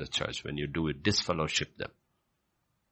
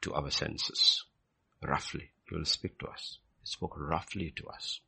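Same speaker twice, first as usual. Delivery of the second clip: hushed; 2 semitones lower, 6 dB quieter than usual. Acted. Preacher drops to hush.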